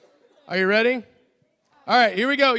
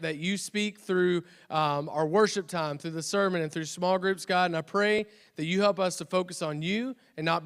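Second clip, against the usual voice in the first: prayer; 2 semitones lower than usual. Real, not acted. Closing prayer.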